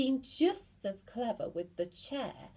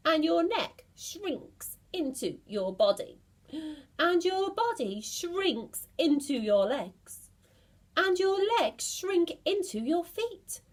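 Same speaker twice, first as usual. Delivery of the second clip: building dread; 6 semitones higher, 4 dB louder than usual. Acted. Mr Twit piling on the horror for his wife, building.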